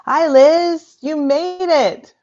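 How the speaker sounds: high, loud, excited hello; delighted greeting. Real, not acted. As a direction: greet an arriving guest with real delight. Greets a guest who just arrived.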